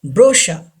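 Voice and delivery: brochure as "BRO-sha", no R at the end; brochure, stressed first, ending in "sha"; silent final R. Shown as a demonstration. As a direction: say brochure with CH as "sh" and drop the last R. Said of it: "R is not pronounced".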